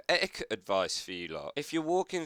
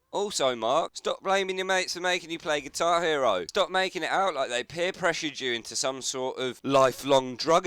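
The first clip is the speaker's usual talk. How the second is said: louder, higher exasperated telling-off; ranting; 4 semitones higher, 4 dB louder than usual. Real, not acted. Commentator scolding Mark for blaming his mates, heated rant. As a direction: lecture him like a fed-up mate.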